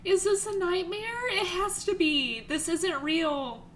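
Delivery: high tearful voice through the lines; crying while reading. Real, not acted. Streamer reading the shocked lines aloud while still crying. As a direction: read it through real tears, half laughing. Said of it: "'cause I am actually crying".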